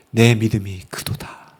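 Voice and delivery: low, slow and soft scripture voice; solemn quiet pronouncement. Acted. Jesus answering the woman's faith, solemn and quiet. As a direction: pronounce it gently and slowly.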